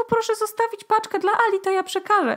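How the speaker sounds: very high, put-on disguised voice. Retelling speaking to a man outside her door: disguised changed voice. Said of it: "I tym zmienionym głosem mówię".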